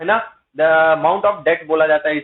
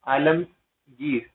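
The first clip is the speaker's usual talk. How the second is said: आलमगीर drawn out very slowly, low and softer; lower, unhurried dictation of आलमगीर; slow repetition; 6 semitones lower, 5 dB quieter, much slower than usual. Shown as a demonstration. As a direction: say आलमगीर slowly, syllable by syllable, for learners. Teacher repeats place name slowly.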